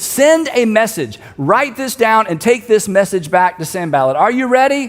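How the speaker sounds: retold shout down. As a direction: call down to a messenger, only half shouting. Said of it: "so he shouts down".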